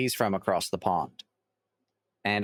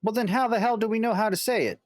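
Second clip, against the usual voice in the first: exasperated outburst; 11 semitones higher, 3 dB louder, faster than usual. Real, not acted.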